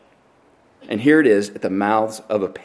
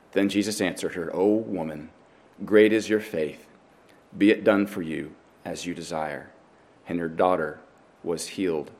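measured, slightly lowered reading voice; scripture reading; 4 semitones lower, 6 dB quieter than usual. A narrator's reading. Preacher reads the Gospel to his congregation, measured scripture reading. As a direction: read it solemnly, letting each phrase settle. Reads Bible passage aloud.

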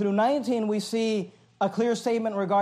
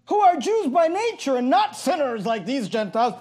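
higher, mock-superior quote; sarcastic; 4 semitones higher than usual. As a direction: imitate smug disdain for outsiders. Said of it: "being spoken sarcastically".

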